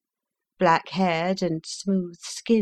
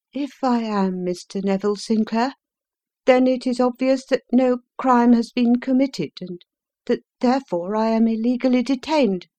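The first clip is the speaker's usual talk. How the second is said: higher, louder protest; indignant prisoner; 7 semitones higher, 4 dB louder than usual. Acted. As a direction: insist on innocence. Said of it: "prisoner protesting".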